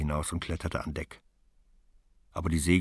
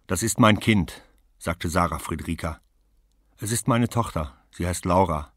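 raised, ringing declaration; proud claim; 5 dB louder than usual. Acted. Mother claims her child before the other woman, raised. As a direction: announce it's your daughter.

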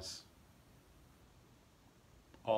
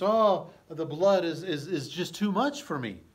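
mock queen fainting; 5 semitones higher, 6 dB louder than usual. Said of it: "that she's just".

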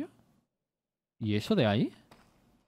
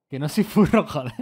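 laughing denial; 2 semitones higher, 8 dB louder than usual. Real, not acted. Teasing Jerónimo about furries, laughing loudly.

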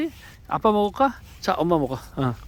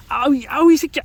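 yelp of pain; 10 semitones higher, 6 dB louder than usual. Real, not acted. Bitten on the hand.

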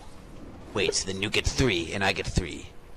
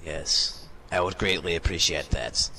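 lordly master voice. Acted. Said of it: "from that voice".

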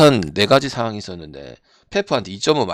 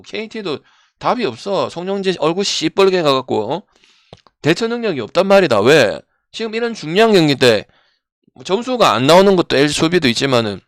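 loud, heated complaining; exasperated rant; 4 semitones higher, 5 dB louder than usual. Real, not acted. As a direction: vent about the coach, fired up. Streamer ranting about coach. (흥분해서 열 내며)

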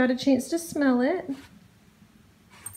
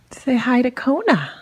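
pet talk voice; 5 dB louder than usual. Real, not acted. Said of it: "I don't know why I'm talking like this".

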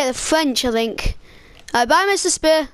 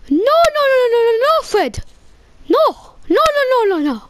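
mock teacher scolding; 5 semitones higher, faster than usual. Teacher voice rejecting the answer.

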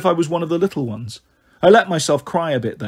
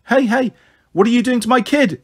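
high-pitched protective outburst; indignant; 8 semitones higher, 3 dB louder than usual. A narrator's reading. Mother rushing in to her screaming child, indignant. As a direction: demand it sharply, pitched high.

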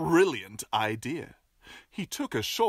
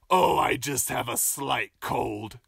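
croaking wolf; 3 semitones lower than usual. Acted. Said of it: "croaked the wolf".

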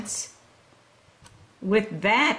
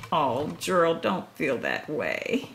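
comforting. Real, not acted. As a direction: soothe a sad friend. Reader comforting sad character.

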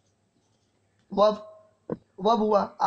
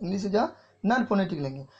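slow recap; slower than usual. Shown as a demonstration. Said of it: "what is English?".

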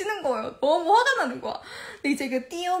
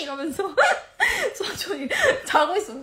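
ordinary talk

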